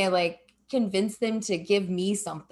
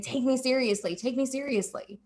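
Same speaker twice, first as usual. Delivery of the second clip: repeated plea; 5 semitones higher than usual. Retold or imitated. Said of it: "constantly having to prove yourself and".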